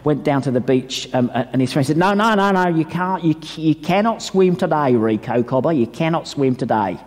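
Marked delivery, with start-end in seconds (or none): 2.0-7.0 mock Australian mate; light Australian accent. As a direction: try a rough Australian accent on a friend's warning. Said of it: "Is that a good Australian accent?".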